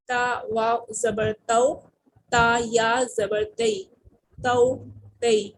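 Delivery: تو and تئی read gently, no stretching, no jolt; soft lin reading. Shown as a demonstration. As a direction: spell and read تو تئی slowly and softly. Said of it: "آرام سے اور نرمی سے پڑھنا ہوتا ہے".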